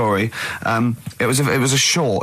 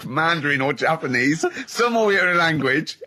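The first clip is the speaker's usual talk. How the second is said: laughing mimicry. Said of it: "But she went".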